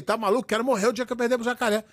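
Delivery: rápido e casual, sem peso; dizer espontâneo. Retold or imitated. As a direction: solte como um dito de momento, distraído. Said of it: "era um dizer que saía assim espontâneo". (jeito espontâneo de falar, sem intenção séria)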